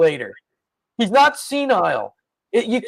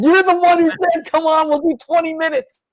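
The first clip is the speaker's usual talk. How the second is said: indignant protest; 8 semitones higher than usual. Real, not acted. Siblings arguing, high and loud.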